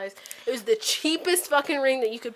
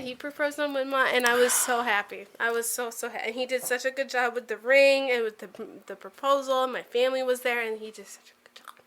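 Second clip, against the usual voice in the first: slurred, fading to a whisper; 3 dB quieter than usual. Real, not acted. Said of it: "I'm drunk as shit".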